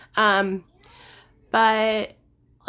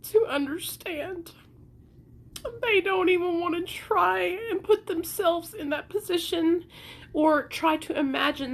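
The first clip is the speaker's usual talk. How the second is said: tearful; 4 semitones higher than usual. Real, not acted. Quoting while crying.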